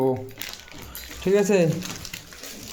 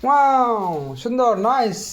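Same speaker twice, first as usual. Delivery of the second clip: excited praise; 5 semitones higher, slower than usual. Real, not acted. Praising baby driving car.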